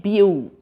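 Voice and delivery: BEAU said as a single sound, byoo; one vowel sound. Shown as a demonstration. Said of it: "giving you the sound of".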